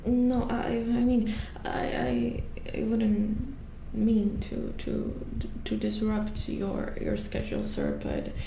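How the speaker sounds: hesitant, halting deference; tentative, apologetic false starts; nervous stammering. Acted. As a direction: stumble over your words to a superior. Nervously phoning a superior.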